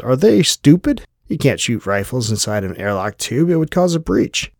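outraged disbelief. Acted. Outraged at shooting in airlock.

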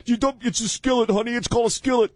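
high, condescending wife; bossy woman voice. Acted. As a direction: correct him sharply in a high voice. Acting the bossy fiancée.

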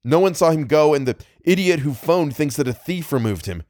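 mild alarmed cry. Acted. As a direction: voice him mildly alarmed at the news. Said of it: "he cried".

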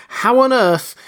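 high, loud astonishment; flabbergasted, voice shooting up; astonished. A narrator's reading. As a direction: burst out in utter disbelief. Kemp is astonished.

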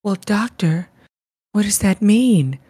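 lightly imitating her odd pacing; spaced-out words, mildly mocking her tone; odd halting delivery. Mocking how a film character speaks, oddly paced. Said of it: "her tone and her pacing".

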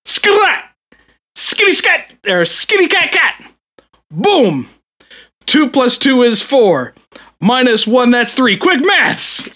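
high, loud mock grime rapper shouting the line; loud hammed-up rapper with a British accent; rapper impression. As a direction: belt it out like a hyped London rapper. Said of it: "And the line goes".

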